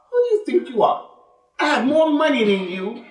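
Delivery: high, scornful challenge; arrogant challenge. Retold or imitated. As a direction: sneer it up at him like a boaster. Voicing arrogant rich man.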